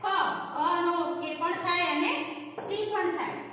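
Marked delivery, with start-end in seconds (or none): 0.0-0.1 ક as a lone "ka" syllable; letter sound. Shown as a demonstration. Teacher giving the sound of K, ક said "ka". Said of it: "નો ઉચ્ચાર થશે".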